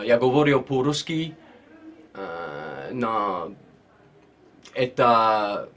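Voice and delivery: halting Russian, said slowly; Russian speaking. Shown as a demonstration. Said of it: "give us a little flavour of your Russian accent".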